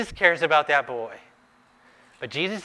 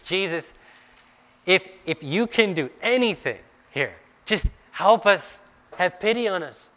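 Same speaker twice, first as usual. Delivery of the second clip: higher and louder, pleading hard; desperate plea; 5 semitones higher, 4 dB louder than usual. Acted. Father begging Jesus to heal his son, desperate and loud. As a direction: beg like it's your last hope.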